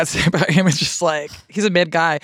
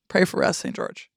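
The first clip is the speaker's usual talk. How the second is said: whispered, hushed prayer; whispered mock prayer to Saint George; 6 dB quieter than usual. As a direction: murmur it like a devotion. Joking prayer to a singer.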